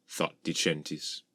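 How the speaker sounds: ordinary delivery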